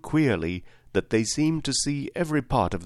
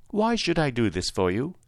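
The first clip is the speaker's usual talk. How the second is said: higher, queenly questioning; a hint of a gracious sovereign; lightly voiced lovely lady; 5 semitones higher than usual. Winged lady questions the scarecrow's request, lightly voiced, higher. Story figure, the lady asks.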